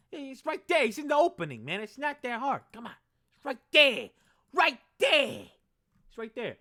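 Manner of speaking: high, loud exasperated hype; hyped insistence. Acted. Hyped defence of main guy.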